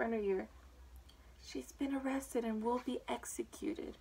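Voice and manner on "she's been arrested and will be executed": soft, hushed confiding; whispered secret. A narrator's reading. Rabbit confiding in Alice's ear, hushed whisper. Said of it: "so he could whisper".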